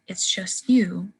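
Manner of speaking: slow "It's just you" with the T of "just" lost; dropped T. Shown as a demonstration. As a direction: say "just you" slowly, no T before "you". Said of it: "you lose the T at".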